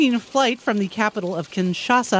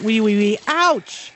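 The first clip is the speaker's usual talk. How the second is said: piggy squeal; 3 dB louder, slower than usual. Acted. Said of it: "This little piggy went".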